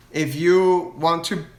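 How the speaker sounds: slow words broken by a burp; talking through burps. Real, not acted. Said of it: "man, I'm burping so much".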